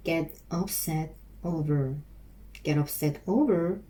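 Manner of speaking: very slow, each word stretched; slow practice drill. Shown as a demonstration. Learner practising the phrase aloud, very slow and drawn out. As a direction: sound it out slowly, word by word. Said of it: "repeating phrase slowly for practice".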